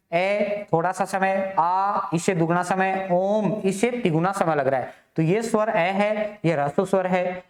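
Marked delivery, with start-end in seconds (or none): 0.1-4.9 ए short, आ longer, ओम held longest; vowel length demo. Shown as a demonstration. Teacher demonstrating vowel lengths to the class, slowly. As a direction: stretch each vowel to show short, long and pluta. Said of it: "इन तीनों का उच्चारण अपने को करना है".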